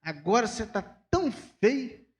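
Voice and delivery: fast then slowed jab; tactless insult. Retold or imitated. Critic telling Vinícius he looks ugly now, casual and snide. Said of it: "Aí fala assim".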